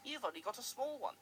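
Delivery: cheeky. Acted. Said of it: "in his cheeky way".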